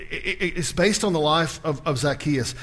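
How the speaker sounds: ordinary delivery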